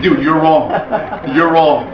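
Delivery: retold amused verdict, laughing; imitated laughing. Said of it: "is laughing at him".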